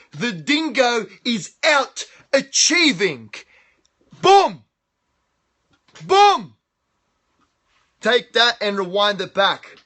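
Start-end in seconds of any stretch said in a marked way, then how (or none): 4.2-4.6 loud high boom, punched out; excited shout. Real, not acted. Hype shout to camera. 6.0-6.5 loud high boom, punched out; excited shout. Real, not acted. Hype shout to camera.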